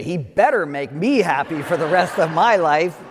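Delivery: a laughing, half-joking demand; mock demanding bride. A pretend bride at the aisle, laughing and demanding. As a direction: tease it like a bride making a demand. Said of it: "and you said".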